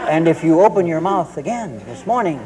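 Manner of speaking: hammed-up menace with weighty pauses; towering threat. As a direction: play the all-powerful parent, spacing each phrase out. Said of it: "towering above him".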